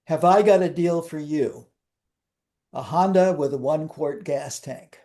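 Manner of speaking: slow, deliberate delivery of a title; measured, with a pause midway; said slowly. Shown as a demonstration. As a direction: spell out the title slowly, phrase by phrase. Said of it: "I'll say it slowly".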